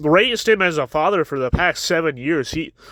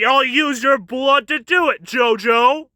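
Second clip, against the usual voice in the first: higher, gleeful mock villain shout; gloating villain; 5 semitones higher than usual. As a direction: gloat over the attack. Dio gloating attack.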